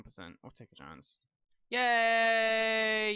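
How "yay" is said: happy yay. Real, not acted. Patient lived.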